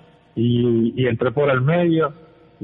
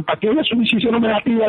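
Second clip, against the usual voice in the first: fast, higher-pitched objection; retold protest; 8 semitones higher, faster than usual. Player answering the coach's call to go up, retold protest.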